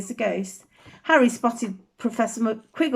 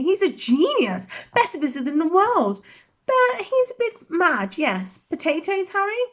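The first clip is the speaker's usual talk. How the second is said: airy; 6 semitones higher than usual. Acted.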